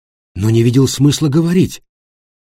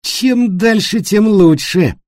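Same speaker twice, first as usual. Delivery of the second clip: pained irony; 11 semitones higher, 4 dB louder, slower than usual. A narrator's reading. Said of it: "страдальчески усмехнулся".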